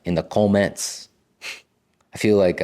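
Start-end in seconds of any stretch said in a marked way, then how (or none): 0.0-1.1 put-on, maybe Nigerian accent with rounded "comments"; unplaced accent, maybe Nigerian. Shown as a demonstration. Wondering what accent that was, maybe Nigerian accent. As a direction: replay a loosely Nigerian-sounding accent. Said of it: "What kind of accent was that?".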